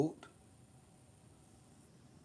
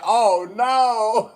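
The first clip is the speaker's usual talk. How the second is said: high, loud laughing dismay; 6 semitones higher, 7 dB louder than usual. Retold or imitated. Reacting to friend's sugar daddy plan, laughing. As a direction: laugh through the words. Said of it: "I said".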